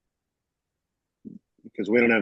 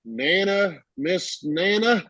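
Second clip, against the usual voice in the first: timid polite request; 6 semitones higher, slower than usual. Retold or imitated. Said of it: "he goes".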